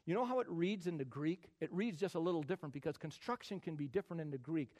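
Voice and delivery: normal talking voice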